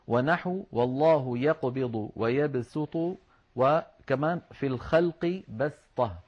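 slow tajweed recitation with sīn; reciting Quran slowly. Shown as a demonstration. Teacher recites the verse to students, slow and measured. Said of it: "با سين طاء".

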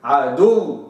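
عدو stopped with a slight lip rounding at the end; pause with ishmam. Shown as a demonstration. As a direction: stop on عدو, rounding the lips lightly. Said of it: "أقف عليها كده".

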